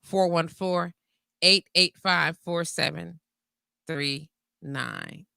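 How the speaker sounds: phone number read slowly, each digit clear; slow down and spell out every number; slow, careful repeat. Shown as a demonstration. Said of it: "That's area code".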